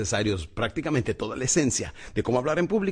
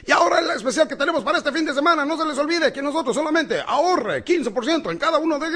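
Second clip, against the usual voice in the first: fast, high, loud ad-read patter; monotone TV announcer; 13 semitones higher, 5 dB louder than usual. Retold or imitated. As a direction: rattle off a cheesy commercial. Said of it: "salen los anunciadores". (locutor comercial rápido, agudo y fuerte)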